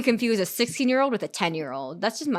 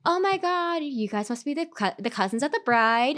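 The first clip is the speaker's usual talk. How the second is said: gushing stranger; 5 semitones higher than usual. Retold or imitated. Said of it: "and she goes".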